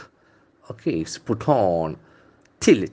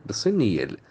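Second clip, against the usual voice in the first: "Decennial" with extra care on the CEN; careful second-syllable stress. Shown as a demonstration. Teacher giving extra care to that sound, stress demo. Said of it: "I must give extra care to that sound".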